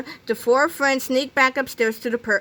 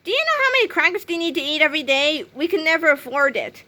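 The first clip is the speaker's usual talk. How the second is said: stern; 6 semitones higher than usual. Acted. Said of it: "said George sternly".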